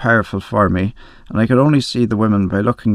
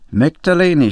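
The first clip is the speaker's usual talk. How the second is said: hysterical cry; 6 semitones higher than usual. A narrator's reading. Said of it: "she cried hysterically".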